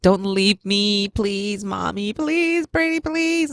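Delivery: put-on slow, pleading little girl, rising on pretty please; mild mock pleading of a crying kid; pleading child. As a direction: beg like a clinging child. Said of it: "grabbing on my leg, like".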